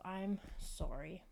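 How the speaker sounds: slow Canadian-sounding sorry, sorry with a round o as in "sore"; drawn-out Canadian "sorry", o rounded like "sore-ee". Real, not acted. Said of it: "I said sorry the British way".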